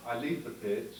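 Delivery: mock foreign driver's halting English, slow at first; lightly voiced driver on the soundtrack; imitating a racing driver. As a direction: read it like a badly dubbed race driver. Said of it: "the soundtrack went something like this".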